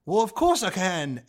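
a touch of mock English accent; lightly hammed-up English accent. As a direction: answer in a put-on English accent. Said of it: "can you do an English accent".

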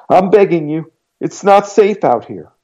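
put-on frightened girl pressing her case; pleading girl. A narrator's reading. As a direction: insist she knows he's home. Girl begging at the door.

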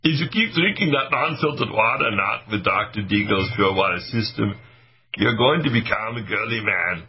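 a changed comic voice, only lightly shifted; put-on joke voice. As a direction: slip into a silly character voice for the joke. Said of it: "I'll use this voice change".

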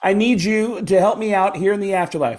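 high put-on comedian voice, pleading; Sam Kinison. Prank caller asks the star for help from the afterlife. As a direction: beg for help from beyond the grave. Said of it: "that impression is so good".

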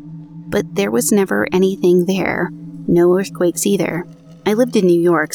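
even, measured podcast read of a true ghost story; narrating an eerie personal account; story narration. A narrator's reading. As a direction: read the listener's account aloud, steady and clear. Reads out listener's story.

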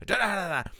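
loud, high rattling "da da da"; imitated machine clatter. Film fan imitating a noisy train, loud staccato clatter.

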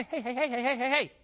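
high insistent hey hey calls; mock nagging notification voice; nagging device calling. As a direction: pester like a device demanding attention. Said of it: "just kinda".

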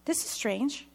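lightly voiced doctor, pitch climbing in disbelief; a bewildered doctor searching for the tumors; puzzled doctor. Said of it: "The doctor says".

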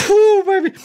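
coughing fit ending in a high yelp; cough then high squeal. Real, not acted. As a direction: burst out after the cough. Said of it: "fight this sneeze".

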